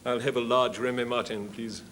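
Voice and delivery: put-on hammy old thespian asking a favour; old touring actor. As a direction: play an old-school actor announcing himself. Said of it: "a story about an old boy who's on tour".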